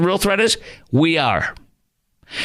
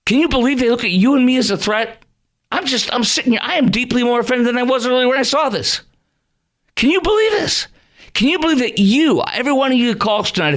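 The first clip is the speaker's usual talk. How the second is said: high-pitched, offended disbelief; real indignation, pitched up and insistent; pissed off; 7 semitones higher than usual. Real, not acted. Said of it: "I'm pissed".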